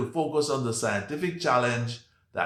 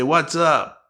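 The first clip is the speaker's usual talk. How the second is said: loud, punchy American greeting; American accent; 4 semitones higher, 6 dB louder than usual. Shown as a demonstration. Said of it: "Do you speak like an American?".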